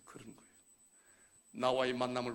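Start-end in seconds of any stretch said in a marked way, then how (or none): none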